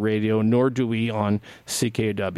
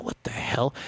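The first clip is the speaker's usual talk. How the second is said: muttered; 6 dB quieter than usual. Retold or imitated. Muttered confusion.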